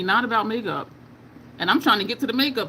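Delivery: ordinary talk, nothing marked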